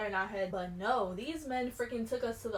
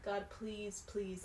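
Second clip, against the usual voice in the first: soft, hushed pleading; whispered frightened prayer; quiet prayer; 8 dB quieter than usual. Retold or imitated. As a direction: plead under the breath. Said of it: "praying in my head".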